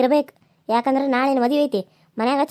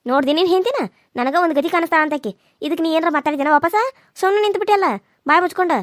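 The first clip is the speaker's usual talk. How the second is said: indignant scolding; 3 semitones higher than usual. Acted. Mother scolds her son for staying silent, indignant and rising. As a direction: complain bitterly, climbing up.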